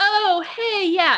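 high, breezy, dismissive tone.

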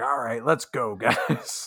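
rough, very gravelly put-on voice. Describing how a player's voice changes at a d&d session, imitating a gravelly voice. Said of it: "very gravelly".

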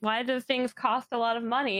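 normal talking voice

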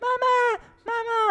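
put-on very high-pitched, bawling baby yell. Complaining about constant noise, imitating a baby yelling. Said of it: "The baby will be yelling like".

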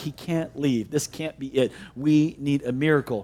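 quavering, trembling, very low and hushed. Retelling what a woman said when she called, imitating a trembling voice. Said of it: "I hear the tremor in her voice".

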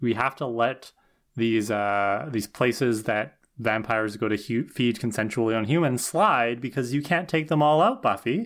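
normal talking voice

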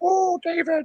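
put-on very high, tiny voice with Indian accent. Speaker recalls Maharishi talking after going off air, in Maharishi's little Indian voice. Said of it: "in his little Indian voice".

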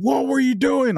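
all-out, very high-pitched scream. Retelling how the vehicle commander screamed at the driver: imitating a screaming commander. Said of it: "It was like just screaming".

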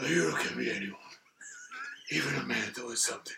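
low, soft, badly done gravelly rasp. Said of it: "I do an awful impression".

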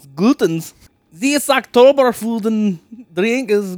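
bad put-on German accent. Joking around trying to speak German, in a bad German accent. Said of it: "I start German, but I end up sounding French".

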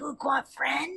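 put-on eerie, high voice crackling like a baby monitor. Acting out a ghost speaking through a baby monitor at night: creepy voice. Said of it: "I would have creepy sounds".

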